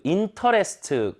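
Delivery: interest slowly as "인터레스트"; Korean-style reading. Shown as a demonstration. Teacher showing what to avoid, interest in Korean syllables. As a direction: give interest every vowel, ending in 트. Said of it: "가 아니라".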